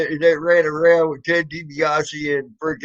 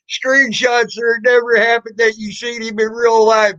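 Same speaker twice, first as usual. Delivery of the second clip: mocking quote; 5 semitones higher than usual. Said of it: "That is the stupidest fucking troll saying".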